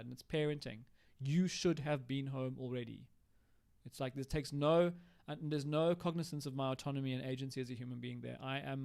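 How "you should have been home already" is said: slow, weighty scolding tone, a touch of reproach; slow critical parent. Shown as a demonstration. Partner scolding him for coming home late, slow and reproachful. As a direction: drag it out like a disapproving parent. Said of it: "there's a critical tone to that".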